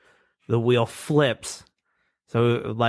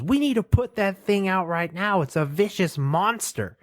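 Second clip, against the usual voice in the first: higher, alarmed caveman voice; 8 semitones higher than usual. Retold or imitated. Caveman warning his friend about fire, in a higher, alarmed caveman voice. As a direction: panic about the flame like a simple caveman. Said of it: "And he goes".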